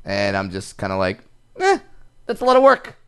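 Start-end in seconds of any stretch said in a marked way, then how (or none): 1.6-2.9 reluctant. Retold or imitated. Mock reluctant reaction.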